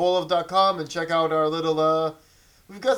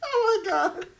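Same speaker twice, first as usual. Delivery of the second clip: high disbelieving squeal then laugh; surprised; 9 semitones higher, slower than usual. Real, not acted. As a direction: shriek it in disbelief. Shocked exclamation.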